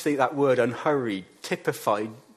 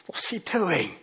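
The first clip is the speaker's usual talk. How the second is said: baffled crowd; 6 semitones higher, 3 dB louder than usual. Retold or imitated. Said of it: "everybody else is going".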